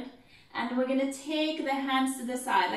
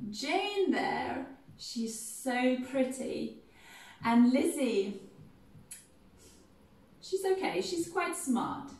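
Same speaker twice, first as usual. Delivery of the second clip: proud Mrs Bennet; 2 semitones higher, slower than usual. Shown as a demonstration. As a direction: boast about each daughter. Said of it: "she's gonna go".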